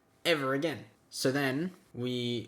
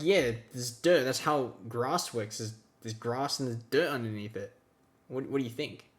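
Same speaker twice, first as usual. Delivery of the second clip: deadpan; 3 semitones lower than usual. Retold or imitated. Deadpan reply to friend.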